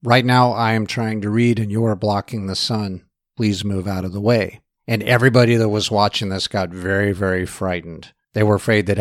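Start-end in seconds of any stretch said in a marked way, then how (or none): 0.0-4.6 calm, matter-of-fact reply. Retold or imitated. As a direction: calmly state it as a simple fact. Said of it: "said very calmly".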